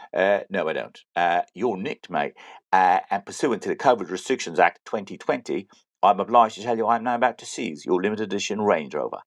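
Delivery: lightly faked English copper accent; officious mock-English arresting officer; put-on English accent. Guard seizes driver's Range Rover, fake English accent. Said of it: "the shit English accent".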